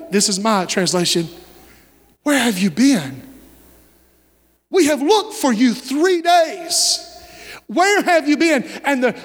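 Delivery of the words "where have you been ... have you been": drawn-out exasperation of a worried mother; a mother's mild, slow-building scolding; acted motherly reproach. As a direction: demand answers from a missing son. Mary scolds her lost son.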